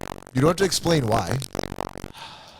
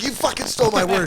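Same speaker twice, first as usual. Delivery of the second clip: mock accusation; 6 semitones higher than usual. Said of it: "Greg's like".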